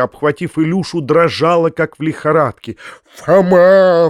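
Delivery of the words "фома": louder, frantic cry of the name; frenzied cry. Acted. Uncle crying out to Foma in frenzy. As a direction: burst out in a frenzy. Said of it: "вскричал дядя в исступлении".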